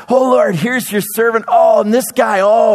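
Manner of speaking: joyful proud shout to the Lord; excited presentation. Pretend. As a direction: show off your friends to God. Paul presenting his people to God.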